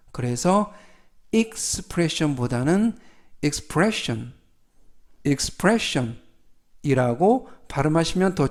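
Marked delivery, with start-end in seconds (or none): 3.4-4.3 "expression" stressed on the second syllable, PRESS; stress on middle e. Shown as a demonstration. Teacher repeating the recommended form for learners, "expression" with middle stress. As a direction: put the weight on "pre" in "expression". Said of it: "가운데 있는 이에 강세가 있습니다".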